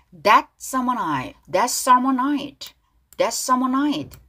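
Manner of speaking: slow "That summer night" with light final T sounds; weak T. Shown as a demonstration. Teacher drills the lyric for learners, T weakened. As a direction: soften the T in "That" and "night". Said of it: "트 발음 약하게 지금 발음 연습하고 있어요".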